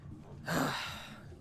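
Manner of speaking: a tired, breathy NPC sigh. Acted. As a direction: let out a weary sigh before speaking. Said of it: "looks at you guys again and goes".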